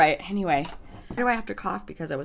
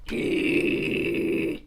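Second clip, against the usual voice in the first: mock intro; 4 semitones higher, 9 dB quieter, slower than usual. Mock YouTuber intro attempt.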